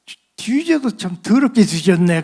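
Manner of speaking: loud scornful jab; crude marine curse. Retold or imitated. A marine sneering at the crucifix painting, loud and scornful. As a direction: spit it out like a rough marine.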